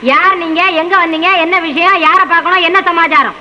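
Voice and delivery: recited list of questions, no stumbling; rehearsed questioning. Acted. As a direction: reel off questions like a learnt lesson. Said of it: "விசாரணையை நல்லா பாடம் பண்ணி வச்சிருக்கியே".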